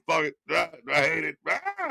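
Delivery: restrained exasperated growl-out; intense but controlled. Acted. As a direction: vent frustration but hold it in. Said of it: "intense, but, you know, controlled".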